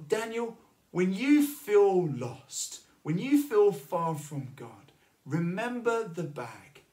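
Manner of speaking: a gentle but pointed God speaking to him. Retold or imitated. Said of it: "I felt God say to me".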